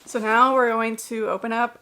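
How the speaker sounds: aggressive. Real, not acted. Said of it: "That was very aggressive".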